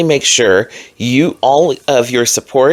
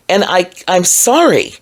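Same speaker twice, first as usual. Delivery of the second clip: apology; 5 semitones higher than usual. Real, not acted. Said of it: "I'm not sorry".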